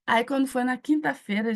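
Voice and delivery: ordinary talk, nothing marked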